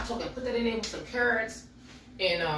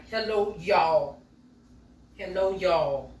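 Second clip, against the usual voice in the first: slow, drawn-out teasing hello, louder; a cheeky sing-song hello to the date; playful hello; 6 dB louder, much slower than usual. Pretend. Playful vlogger teasing viewers about date night, slow and loud.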